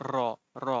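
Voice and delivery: "র" with tongue tapping rapidly at the tooth roots; trilled r. Shown as a demonstration. Teacher shows students the tongue shaking, "র" trilled. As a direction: vibrate the tongue tip on each "র". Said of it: "জিভে দ্রুত বারবার দন্তমূলে আঘাত করে".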